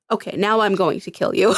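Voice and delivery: calm, matter-of-fact villain imitation; understated, even-toned threat. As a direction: announce it very calmly, as a mock villain. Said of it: "just very calmly".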